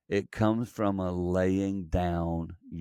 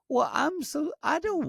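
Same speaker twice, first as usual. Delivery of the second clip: heartfelt apology. Retold or imitated. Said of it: "my heart was like".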